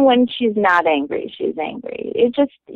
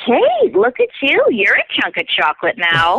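mother's blunt jab; 4 semitones higher than usual. Retold or imitated. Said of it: "she'd be like".

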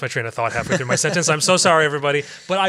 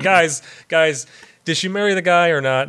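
higher pretend startled questioning; mock waking-up alarm; 4 semitones higher, 4 dB louder than usual. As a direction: play at waking up mid-movie, louder. Acting out waking from the film.

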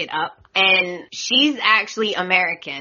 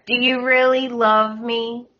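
lightly mimicking a girlfriend, pitched higher; mock needy question; 4 semitones higher than usual. Mimicking Zoe questioning Xander about love, mock needy. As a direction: imitate her asking for reassurance, voice raised. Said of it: "And she asks Xander".

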